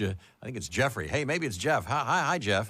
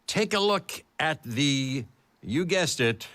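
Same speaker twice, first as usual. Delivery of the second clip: dramatic reading; slower than usual. Acted. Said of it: "here's a dramatic reading of this game announcement".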